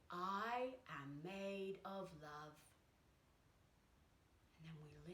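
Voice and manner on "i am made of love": soft affirmation. Shown as a demonstration. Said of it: "we're gonna say".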